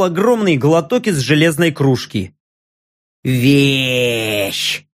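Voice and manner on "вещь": shaky whisper from a freezing orc; trembling whisper. Acted. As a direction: whisper it while shivering. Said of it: "прошептал трясущийся". (дрожащий шёпот)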